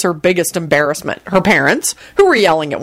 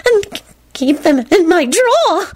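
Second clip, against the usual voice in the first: high, slow, quivering fervour; unhinged, drawn-out high rapture; fervent, breathed; 12 semitones higher, slower than usual. A narrator's reading. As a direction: savour it like a deranged admirer. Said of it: "she breathed fervently".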